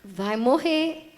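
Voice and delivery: drawn out, each syllable weighted; slowly, like a final verdict; slow grim verdict. Real, not acted. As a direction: let the death sentence sink in slowly. Repeats the verdict slowly, heavily.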